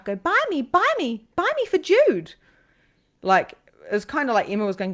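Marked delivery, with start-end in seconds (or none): 0.2-2.3 high, loud little pleading voice; pestering statue voice. Acted. Angel statues calling out from the shop shelf, high pestering plea. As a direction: beg to be bought, squeaky high and insistent. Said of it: "they'd pop out at me off the shelf".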